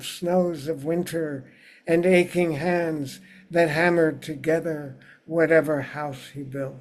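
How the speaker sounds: measured poem recital, phrase by phrase with pauses; unhurried literary reading, settling at line ends; poetry reading. Acted. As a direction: read your poem aloud to an audience, lifting each new sentence. Reads own poem aloud.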